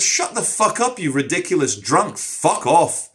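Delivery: retold outburst, starting high; lost temper. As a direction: re-enact snapping at a drunk heckler. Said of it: "I lost my temper".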